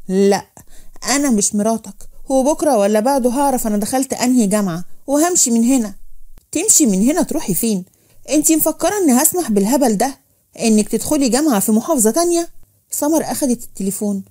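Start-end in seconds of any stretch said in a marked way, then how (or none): 0.1-5.9 mildly irritated refusal; understated angry defiance; resentful defiance. Acted. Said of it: "سمر بصت له بغيظ وقالت". 6.5-12.5 mildly angry, incredulous questioning; indignant husband putting his foot down; indignant challenge. Acted. Husband challenges wife in quarrel.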